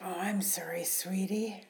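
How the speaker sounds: hushed apology, barely voiced; whisper. Mother apologising to her son, whispered. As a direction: breathe the apology out softly.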